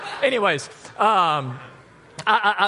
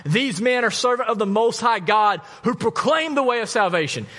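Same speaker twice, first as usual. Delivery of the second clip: mock shriek; 5 semitones higher than usual. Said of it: "she's shrieking out".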